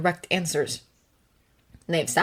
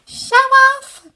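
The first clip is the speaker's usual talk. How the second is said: mock-annoyed retort; 9 dB louder than usual. Friend retorting in game.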